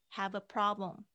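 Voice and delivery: "Have a" run together as one word; linked have a. Shown as a demonstration. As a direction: glide "Have" straight into "a". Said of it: "have跟a可以连在一起".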